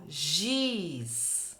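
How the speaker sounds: "Giz" with a soft /ʒ/ sound; soft g demo. Shown as a demonstration. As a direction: model "Giz" slowly for the class. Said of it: "O giz faz o som gi".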